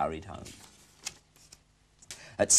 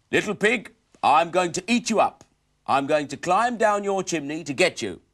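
loud, higher wolf threat; angry wolf voice; 8 semitones higher, 8 dB louder than usual. Acted.

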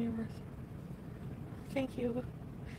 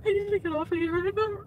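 choking up mid-sentence; crying; 10 semitones higher than usual. Real, not acted. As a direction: voice breaking into tears. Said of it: "I don't wanna just cry".

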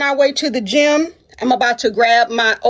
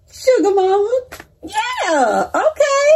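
Sugar Mama belted out high and far; hyped shout; 9 semitones higher, slower than usual. Real, not acted. Host hypes her own nickname to viewers, shouting. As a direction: shout the nickname like a hype call.

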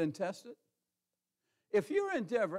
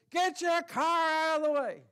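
much higher, louder mock yell; impatient yelling; 10 semitones higher, 5 dB louder than usual. Drivers behind yell at the stalled man, loud mock shout. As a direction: shout it like an angry honking driver. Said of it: "yelling at him".

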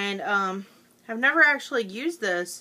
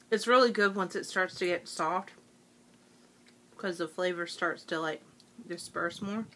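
talking while chewing; words round a chewy candy; mouth full; 3 semitones lower than usual. Real, not acted. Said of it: "with our chewing in the background".

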